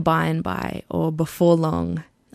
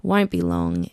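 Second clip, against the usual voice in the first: sighing. Retold or imitated. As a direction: let it out on a tired sigh. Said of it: "they'd sigh and say".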